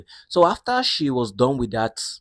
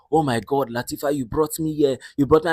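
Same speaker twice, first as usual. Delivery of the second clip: mildly excited, higher exclamation; raised happy voice; 4 semitones higher than usual. Retold or imitated. Mother exclaims at the expensive restaurant, happily raising her voice. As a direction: play a thrilled mother getting carried away. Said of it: "the mother was raising her voice".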